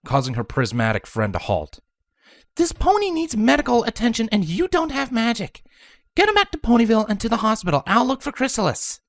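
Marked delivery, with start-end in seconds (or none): 2.5-9.0 high, firm commanding voice; firm orders. A narrator's reading. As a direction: take charge urgently. Twilight giving orders.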